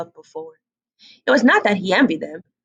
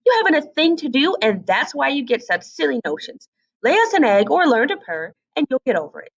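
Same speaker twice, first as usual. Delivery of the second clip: bossy hen; 6 semitones higher than usual. Acted. Hen lectures duckling.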